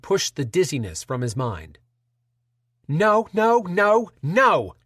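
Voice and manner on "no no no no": high, panicked repeated no; frantic shrill pleading; shrill panic, voice climbing. Acted. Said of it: "in a shrill, panicked pitch".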